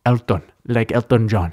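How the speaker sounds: lightly imitated accent, rounded "Elton"; Elton's accent. Host repeats the tech guy's catchphrase, light accent imitation. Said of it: "I wish I had an accent like that".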